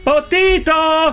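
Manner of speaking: slow, drawn-out call of a name; exasperated announcing. Acted. Man announces himself over the intercom, exasperated.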